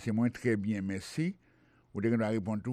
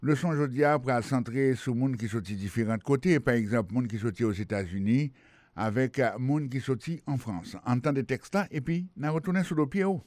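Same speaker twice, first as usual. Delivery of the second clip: radio lesson read. Acted. Presents lesson to listeners.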